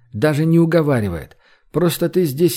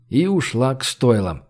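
ordinary delivery, nothing marked

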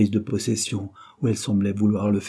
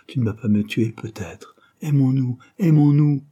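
clinging to him in fear and love; desperate lover. Acted. Christine's fearful plea.

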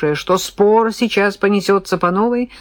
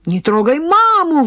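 put-on high child's cry; 9 semitones higher, 4 dB louder than usual. Дочь защищает маму.

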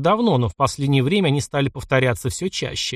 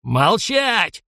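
higher, sharp shouted command; commanding bellow; 6 semitones higher than usual. Acted. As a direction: bellow to silence the room. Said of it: "гаркнул полковник". (полковник гаркнул на ротмистра, громкий окрик)

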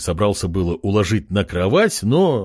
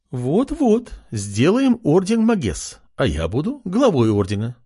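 с улыбкой; 6 semitones higher than usual. Acted. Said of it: "заулыбалась черноволосая".

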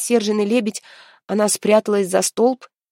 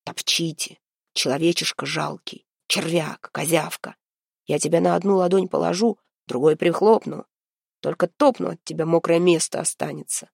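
stone voice. Acted. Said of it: "его каменный голос".

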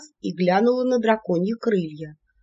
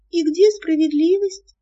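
high, loud indignant squeal; indignant outcry; 10 semitones higher, 4 dB louder than usual. A narrator's reading. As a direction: demand justice, outraged. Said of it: "Мавка возмутилась". (возмущённо, высоко и громко)

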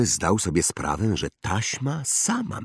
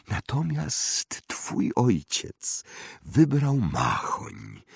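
slow, higher wandmaker voice; eccentric old wandmaker, musing; 6 semitones higher than usual. Acted. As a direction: muse slowly, drawing out words with rises and falls. (ekscentryczny wytwórca różdżek, powolna zaduma)

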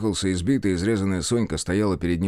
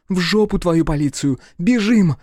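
higher and louder, furious command; angry shout; 9 semitones higher, 5 dB louder than usual. Acted. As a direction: bark it at him and run. Sonka slaps him, runs.

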